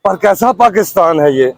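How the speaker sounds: measured, declaimed Urdu verse with falling line ends; rhythmic protest poetry; poem recitation. Acted. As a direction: recite it line by line, pausing after each. Recites own political verse.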